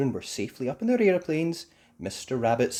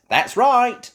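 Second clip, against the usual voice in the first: very high, loud confirmation; Miss Rabbit; 14 semitones higher, 13 dB louder than usual. Acted. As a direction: agree with a beaming tone.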